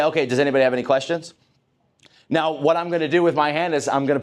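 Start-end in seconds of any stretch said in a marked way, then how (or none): 0.0-1.3 inviting question. Shown as a demonstration. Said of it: "I'm gonna say".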